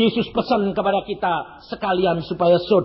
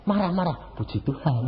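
laughing praise; 5 dB quieter than usual. Shown as a demonstration. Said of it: "kamu harusnya bilang".

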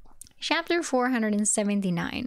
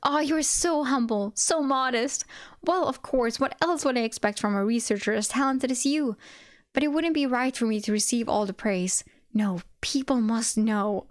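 gushing fan; 3 semitones higher than usual. Acted. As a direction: lay the praise on thick. Fanboy praising loudly.

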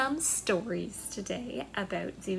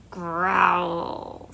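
growl; 6 semitones lower than usual. Shown as a demonstration. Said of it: "what sound do bears make".

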